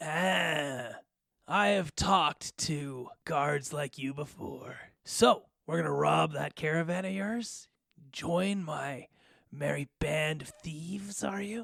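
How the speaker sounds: bestial goblin growl, drawn-out ah. Voicing a goblin replying to the guards, growling. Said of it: "he growls at you".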